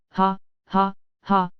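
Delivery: low mocking cackle; mocking laugh. A narrator's reading. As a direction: taunt her with a laugh. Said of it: "mocking laugh of the recluse, saying to her in a very low tone".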